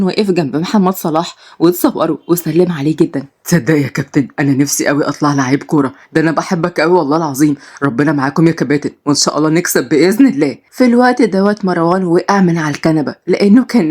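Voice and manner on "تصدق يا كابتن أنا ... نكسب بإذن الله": put-on lower young man voice. Marwan talks to Salah.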